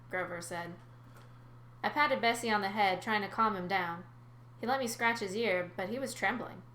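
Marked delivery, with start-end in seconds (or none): 1.8-6.6 story narration. A narrator's reading. Narrator describes calming the frightened sea cow, story narration. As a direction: lively, clear read-aloud.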